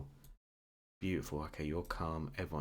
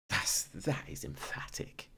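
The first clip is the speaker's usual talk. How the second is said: slow whisper; slower than usual. Real, not acted. Reacting to emphatic penalty.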